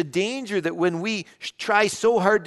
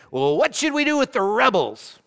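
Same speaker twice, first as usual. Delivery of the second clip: called out loud and high from the crowd; raised voice, calling out; shouted question; 7 semitones higher, 5 dB louder than usual. Retold or imitated. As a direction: shout it up to the balcony. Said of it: "shouted out".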